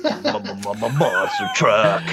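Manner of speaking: stuttered booming announcer echo; low, laughing monster truck hype. Acted. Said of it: "narrate like a monster truck rally".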